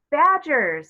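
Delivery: put-on keen child naming an animal; excited. A narrator's reading. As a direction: blurt it out with glee.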